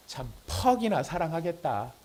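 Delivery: drawn-out, mocking disbelief with falling end; sarcastic scoff. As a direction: scoff at a promise of love, slowly. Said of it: "이런 비웃음을 가질 수 있다는". (느릿하게 비꼬는 말투)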